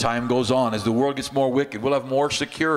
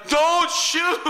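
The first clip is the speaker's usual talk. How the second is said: high, urgent retold cry to hold fire; retold yell; 3 dB louder than usual. Pastor shouting at his Marines to stop, retold high yell. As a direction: call out to stop the shooting, in a retold rush. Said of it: "and I'm yelling".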